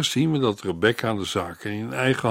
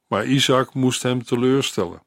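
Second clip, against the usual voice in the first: ordinary talk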